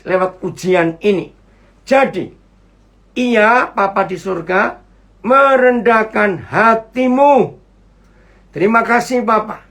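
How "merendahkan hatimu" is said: drawn-out, measured reading; slow verse reading. Real, not acted. Preacher reads scripture to congregation, slowly and deliberately. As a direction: stretch each word of the verse.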